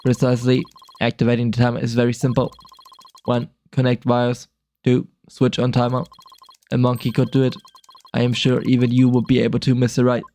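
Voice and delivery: flat, even synthesized speech; robot voice. Acted. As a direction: speak like a text-to-speech machine. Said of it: "strange robotic voice".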